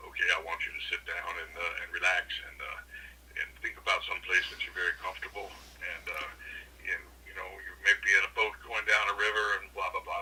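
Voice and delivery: low, calm hypnotist voice; deep sonorous voice. Retold or imitated. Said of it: "he had this real deep, sonorous voice".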